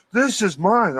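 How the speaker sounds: high-pitched mock defiance; retold defiant cry. Retold thief shouting defiantly back.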